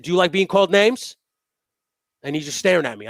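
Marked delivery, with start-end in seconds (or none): 0.0-1.2 loud, high, furious telling-off; angry yell. Retold or imitated. Yelling at the driver who nearly backed into him. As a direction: bark it at him. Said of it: "I said".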